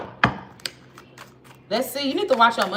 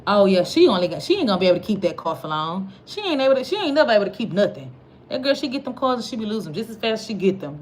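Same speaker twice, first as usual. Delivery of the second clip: envious hater; 4 dB louder than usual. Retold or imitated. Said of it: "evil eye energy is like".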